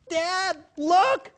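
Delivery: put-on high, loud thrilled child calling "Dad, look!"; elated little girl. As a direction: play the excited six-year-old who spots something. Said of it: "she was all elated".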